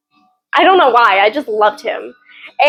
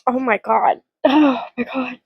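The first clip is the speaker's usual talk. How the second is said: hushed awe; 5 dB quieter than usual. Real, not acted. Overwhelmed by the book.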